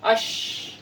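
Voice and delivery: "Ash" with lips pushed forward, a breathy sh; Arabic sh sound. Shown as a demonstration. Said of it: "bibirnya lebih, eh, dimonyongkan ke depan".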